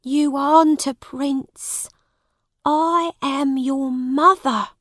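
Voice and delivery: high-voiced, earnest mother; pleading mother. A narrator's reading. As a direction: plead with your son, pitched high. Mother pleads with confused son.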